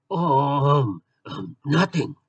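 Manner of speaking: Batman. Acted.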